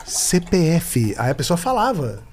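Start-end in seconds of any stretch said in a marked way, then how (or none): 0.1-1.1 slow, spelled out letters; machine voice. Retold or imitated. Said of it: "eu fazia a voz da máquina".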